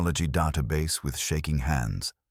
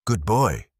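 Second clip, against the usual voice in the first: higher, petting-the-pup praise; lifted, doting little praise; cooing; 4 semitones higher, 4 dB louder than usual. A narrator's reading. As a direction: coo it to a beloved pet. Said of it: "she cooed".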